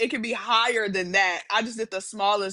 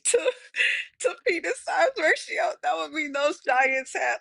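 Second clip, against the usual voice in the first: laughing; 5 semitones higher than usual. Real, not acted. Laughing at absurd math.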